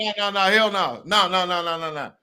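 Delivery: high, excited string of no's; excited denial. Real, not acted. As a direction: pile on the no's in delight. Hyped reaction to coined phrase.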